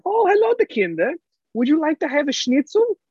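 high-pitched comic German schnitzel seller; German accent. Pretend. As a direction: greet a customer in a hammed-up German accent. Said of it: "let me be German".

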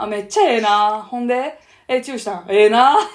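loud prying Osaka auntie; pry for juicy gossip; loud nosy osaka auntie. Retold or imitated. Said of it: "おばちゃんが".

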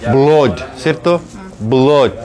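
"Blood" with a long O, as "blod"; British blood. Shown as a demonstration. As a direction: model British "Blood" slowly with a rounded O. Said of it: "En inglés británico se dice blood".

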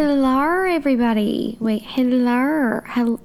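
drawn-out Aussie greeting; attempted Australian accent. Shown as a demonstration. Co-host tries the greeting too, amateur Australian accent. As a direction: try out an Australian hello, feeling for the vowels. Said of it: "practicing my Australian accent again".

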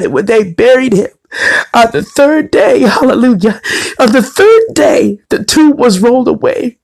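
preaching. Real, not acted. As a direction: lift it like a pulpit proclamation. Preaching Easter resurrection message.

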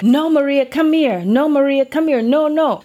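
playing the flustered older brother; brother scolding. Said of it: "The English-speaking brother is like".

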